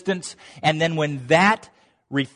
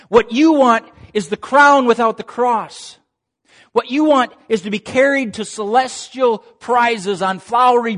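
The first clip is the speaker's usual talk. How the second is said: firm correction; 4 semitones higher, 4 dB louder than usual. Retold or imitated. Jesus correcting Peter, voiced.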